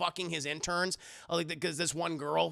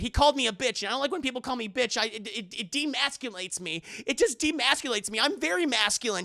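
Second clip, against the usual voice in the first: higher, whiny retold complaint; mock complaining; 5 semitones higher than usual. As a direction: imitate a wounded boyfriend's grumbling. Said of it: "he's just complaining".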